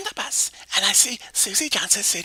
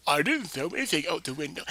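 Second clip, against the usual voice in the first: a hint of a low boyish voice; boyish Tammy; 7 semitones lower, 5 dB quieter than usual. Mary lightly voices Tammy, denying she threw it. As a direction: lightly drop into a boy's voice for Tammy. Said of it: "She sounds like a boy".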